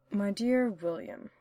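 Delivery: slow, drawn-out address; dramatic pause. Acted. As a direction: savor each word slowly. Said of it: "Hannibal paused dramatically".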